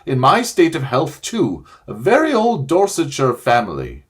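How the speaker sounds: wailing. Acted. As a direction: wail and complain in self-pity. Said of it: "it was wailing on".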